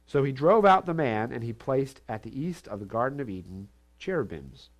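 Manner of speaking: measured, solemn reading of the verses; scripture reading. Acted. Preacher reading scripture to the congregation, solemn. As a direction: read the Genesis passage with weight.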